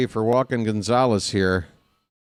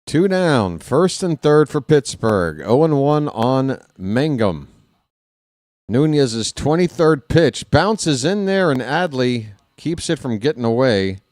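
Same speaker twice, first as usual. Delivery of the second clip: ready, alert game call; live play-by-play; 2 semitones higher than usual. Real, not acted. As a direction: call the pitch to radio listeners.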